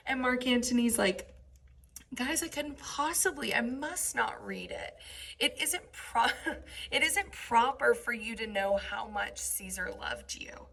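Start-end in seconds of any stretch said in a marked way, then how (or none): 2.2-10.7 facetious. Retold or imitated. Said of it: "He's being facetious".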